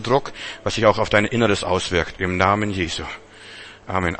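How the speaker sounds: calm praying voice; healing prayer. Acted. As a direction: pray it steadily with authority. Prays over a sick man.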